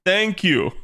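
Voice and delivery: high, slow, overly careful American tourist in Japan; stiff American tourist. Pretend. Streamer mocks how Japanese see an American tourist, high and slow. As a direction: play the clueless American abroad, high and slow. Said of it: "that's exactly the type of American".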